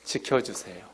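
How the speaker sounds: low, soft repeat of 지켜주세요; soft echo. Shown as a demonstration. Preacher repeating the prayer's plea, low and soft. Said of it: "지켜주세요라고 기도하는".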